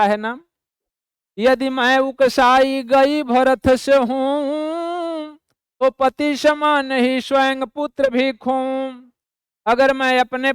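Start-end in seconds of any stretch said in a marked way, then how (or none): 1.4-8.9 slow, drawn-out verse recital; poem recitation. Acted. Teacher reciting Kaikeyi's verse to the class, slow poetic recital. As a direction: chant each line of the poem slowly.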